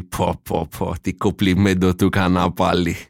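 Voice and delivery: slow, drawn-out mock admiration; mildly hammed-up, slow quote; imitated smug commenter. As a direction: stretch it out like a self-satisfied guy.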